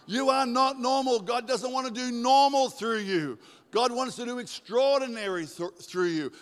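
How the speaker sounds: high, loud preaching; emphatic proclamation. Real, not acted. Preacher tells congregation they are not normal, emphatic proclamation. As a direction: drive it home to the whole room.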